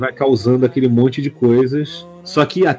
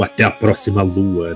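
cheesy one-liner; 5 semitones lower than usual. Retold or imitated. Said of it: "Fala uma frase bem canastrona".

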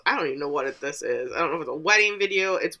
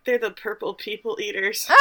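realization outburst; 3 semitones higher, 4 dB quieter than usual. Retold or imitated. Realizing who the purple people are, mild excited exclaim. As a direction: blurt it out like you just cracked the mystery. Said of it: "I was like".

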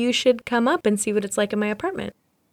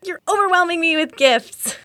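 high surprised delight; 9 semitones higher than usual. Real, not acted. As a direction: gasp in happy surprise. Surprised by gift.

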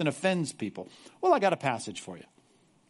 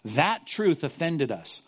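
whiny complainers; much slower than usual. Retold or imitated. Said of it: "They said".

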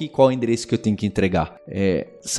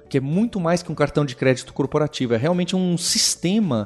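ad read; 3 semitones higher than usual. Acted. Sponsor ad reads.

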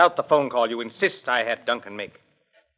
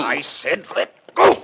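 slow, louder, firm demand; slow angry warning; 2 semitones higher, 4 dB louder, slower than usual. Acted. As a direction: spit it out, angry. Struggle over coat.

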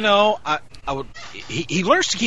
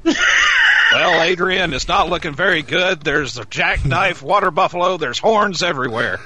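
Robin Williams. Retold or imitated. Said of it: "I so wanna do the Robin Williams routine from Good Morning Vietnam".

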